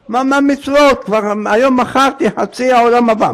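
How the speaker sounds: high, startled objection; acted exasperation; indignant protest. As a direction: protest the price in disbelief. Acted protest at the price demanded.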